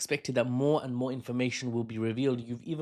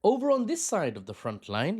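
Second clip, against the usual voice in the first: quoting the reporter; 8 semitones higher, 4 dB louder than usual. Retold or imitated. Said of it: "started with the intro phrase".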